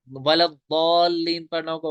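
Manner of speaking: वलद्दालिन said slowly with a careful heavy द; the correct way to recite the word; correct recitation. Shown as a demonstration. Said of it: "वो पढ़ते हैं वलद्दालिन".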